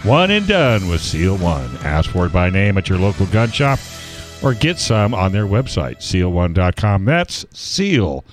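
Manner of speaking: put-on bright, upbeat old-time ad read; chipper 1950s ad. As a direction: sell it like a vintage radio ad. Reads a sponsor ad.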